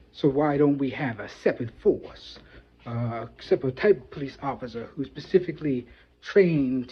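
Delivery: a hint of a crass Texas character; Texas Tyrone voice. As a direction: crass Texas guy explaining policing, lightly voiced. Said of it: "you would communicate something like this".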